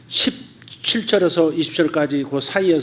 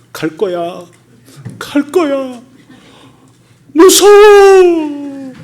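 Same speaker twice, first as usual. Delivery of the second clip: rising to a high, loud, drawn-out terrified cry; a demon wailing in fear as it flees; frightened demon; 11 semitones higher, 9 dB louder, much slower than usual. Acted. Demon voiced fleeing when exposed.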